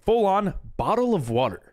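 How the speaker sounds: British "bottle of water" with dropped t and r; mock British accent. Streamer mimics a friend's British accent, lightly done. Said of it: "Can I hear your American accent?".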